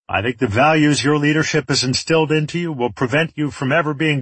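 lightly voiced warlord passing sentence; gloating villain. Enemy leader decides the fates of men and women, gloating.

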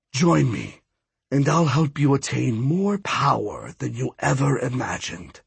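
lightly voiced sinister god; belittle, then coax like a villain, understated; scornful, tempting villain god. Villain god's dialogue.

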